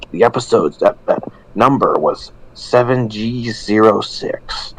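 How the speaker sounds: light spooky storyteller read; creepypasta narrator. Acted. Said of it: "bust out my creepypasta narrator voice".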